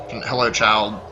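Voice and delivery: creepy crone voice; menacing hag calling child; old woman whispering. Acted. Creepy figure at the door.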